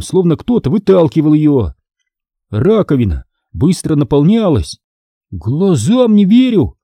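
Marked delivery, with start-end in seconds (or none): 5.3-6.8 ахнув. Acted. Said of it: "ахнул Карло".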